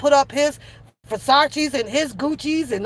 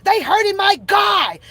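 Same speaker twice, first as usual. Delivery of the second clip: mock whiny complaint; 5 semitones higher than usual. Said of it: "He says".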